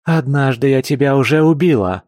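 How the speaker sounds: bare your teeth and say it; a grinning threat to her ex; grinning menace. A narrator's reading. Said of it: "осклабилась Кваз".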